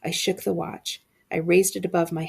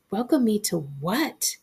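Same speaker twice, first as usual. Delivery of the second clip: voice cracking; 3 semitones higher, slower than usual. A narrator's reading. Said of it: "My voice cracked".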